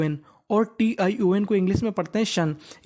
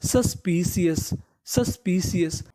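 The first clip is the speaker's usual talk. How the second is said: slow pronunciation demo; slower than usual. Shown as a demonstration. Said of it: "तो पूरी meaning सस".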